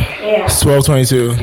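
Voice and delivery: slow, deliberate announcement; slow for the record. Shown as a demonstration. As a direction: spell the time out slowly. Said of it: "I just wanted to say that on the recording".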